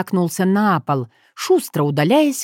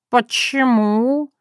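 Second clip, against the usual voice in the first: higher, puzzled cat asking why; a cat baffled at being refused; surprised cat; 7 semitones higher, slower than usual. Acted. Cat protesting to Tanya, surprised and higher. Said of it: "удивился он".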